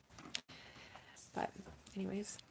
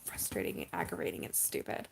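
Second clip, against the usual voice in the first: emotional; 6 dB quieter than usual. Real, not acted. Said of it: "I am so emotional right now".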